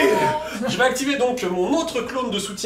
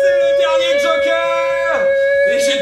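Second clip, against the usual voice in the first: high outraged exclamation; 4 dB louder, slower than usual. Real, not acted. Joueur s'exclame contre la carte.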